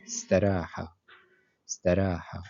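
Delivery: staraha, sin said right away after the a; استراحة بنطق السين مباشرة; Arabic word. Shown as a demonstration. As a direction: say staraha with the s straight in, no i before it. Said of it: "on va prononcer tout de suite le sin".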